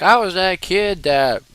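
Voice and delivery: lightly mimicked thick Southern drawl; thick accent. Quoting Zig in his thick accent, lightly imitated. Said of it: "this thick accent".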